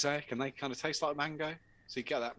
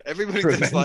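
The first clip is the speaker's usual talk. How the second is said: put-on Northern accent; 5 semitones higher, 11 dB louder, faster than usual. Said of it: "best Northern accent".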